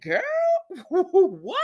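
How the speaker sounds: put-on high laughing "girl, what?"; laughing disbelief. Viewer laughing at Esme's words. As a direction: crack up in disbelief. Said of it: "I said".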